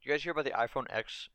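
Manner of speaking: talking with a mouthful of peanut butter; words round a mouthful; mouth full of peanut butter. Real, not acted. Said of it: "I got peanut butter in my mouth".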